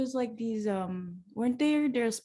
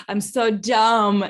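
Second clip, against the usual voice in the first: slow and louder; real self-reproach; 6 dB louder, much slower than usual. Real, not acted. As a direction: drag out each word of the self-reproach.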